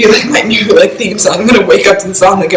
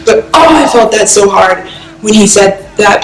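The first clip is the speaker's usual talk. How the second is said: fighting tears. Real, not acted. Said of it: "I'm trying really hard not to cry right now".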